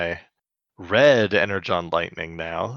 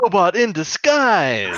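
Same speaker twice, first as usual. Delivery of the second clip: high, raised playful call; catchphrase call-out; 9 semitones higher, 4 dB louder than usual. Pretend. Co-host chimes in after the cat's name, playful catchphrase call-out. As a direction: belt it like a cartoon slogan.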